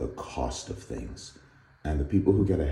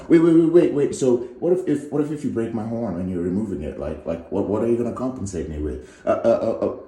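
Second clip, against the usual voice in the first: fretting unicorn; 5 semitones higher, 5 dB louder than usual. Acted. Unicorn panicking again.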